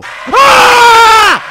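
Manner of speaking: loud terrified scream at a jump scare; sudden piercing yell of shock; startled scream. Real, not acted. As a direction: scream in real fright. Jump scare in horror game.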